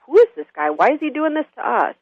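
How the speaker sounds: high-pitched baffled questioning; bewildered. Retold or imitated. Passengers on the train question the drunk's behavior, bewildered high voice. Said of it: "it's almost a bewilderment".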